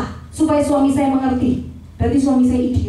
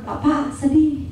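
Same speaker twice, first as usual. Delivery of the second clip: soft sad prayer; much slower than usual. Shown as a demonstration. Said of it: "tinggal bilang".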